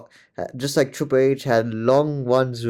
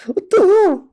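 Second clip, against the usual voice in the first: high, stretched out in shock; can't believe what he just heard; shocked disbelief; 7 dB louder than usual. Real, not acted. Shocked reaction to wrestling promo.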